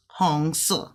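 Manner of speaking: "Hong se" coming down at the end; fourth-tone ending on SE. Shown as a demonstration. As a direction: let "se" fall after "Hong". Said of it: "coming down fast in the fourth tone".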